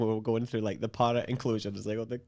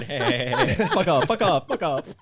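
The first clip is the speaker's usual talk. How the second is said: mock parent jeering; 6 semitones higher, 8 dB louder than usual. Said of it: "the parents are going".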